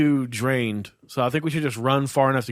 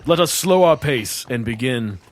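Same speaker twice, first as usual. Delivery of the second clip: stagey fake archaic declaiming; 4 semitones lower, slower than usual. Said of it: "something in character voice".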